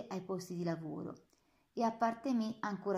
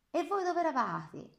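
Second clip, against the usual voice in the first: high, loud, sharp reproach to the guards; angry rebuke; 8 semitones higher, 4 dB louder than usual. Acted. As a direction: scold the guards who were missing. (rimprovero rabbioso alle guardie)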